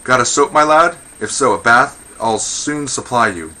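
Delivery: high, loud jeering question; taunting question. Acted. Woman threatening a man with a bath, taunting. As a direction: taunt him with a rising lilt.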